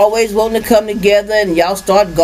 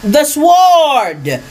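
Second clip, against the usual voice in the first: scripture reading; slower than usual. Acted. Reads scripture aloud.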